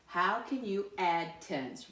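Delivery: slow, measured read-aloud; slow model reading. Shown as a demonstration. Teacher reads the question first for pupils to follow, slow model reading. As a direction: read it out slowly, word by word. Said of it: "let me read it the first time".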